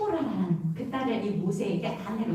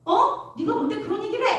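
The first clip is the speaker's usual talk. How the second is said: acting out an indignant comeback, pitch climbing; retold angry challenge, throwing the questions back; angry retort; 3 semitones higher than usual. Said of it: "막 화가 난 거예요". (화가 나서 따지는 말투 흉내)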